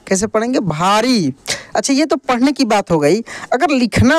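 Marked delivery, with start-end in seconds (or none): 0.6-1.3 भारी joined, with a long final ī; drawn-out long ī. Shown as a demonstration. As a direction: blend भारी and stretch the ending. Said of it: "खींच कर किया जाता है". (भारी की ई लंबी)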